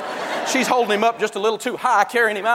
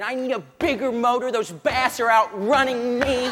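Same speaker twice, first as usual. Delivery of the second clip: put-on whiny good old boy; 4 semitones higher than usual. Good old boy at the boat show begging for a motor, whiny. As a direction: plead like a kid for a bigger toy. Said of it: "right by the bass boats going".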